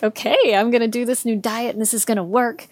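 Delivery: mildly giddy first-morning optimism. Retold or imitated. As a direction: replay naive excitement, a little giddy. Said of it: "I was almost a little giddy".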